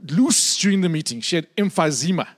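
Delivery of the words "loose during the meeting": put-on elderly woman. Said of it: "She said to me".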